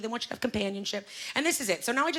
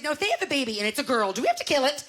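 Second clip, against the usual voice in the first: mock-anxious mom working up to a higher question; upset mother; 5 semitones higher, faster than usual. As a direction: imitate a worried mom, getting more agitated. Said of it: "she's nervous. It makes her upset".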